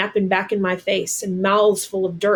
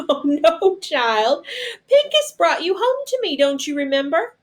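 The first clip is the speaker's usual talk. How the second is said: much higher, bright motherly reassurance; a lightly voiced mother soothing a sick boy; cheerful mother voice; 9 semitones higher than usual. Momo Bay comforting the boy.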